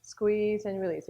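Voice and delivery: brisk, even exercise cue at normal speed. Shown as a demonstration. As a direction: pick up the tempo as you call it. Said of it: "A little bit faster too".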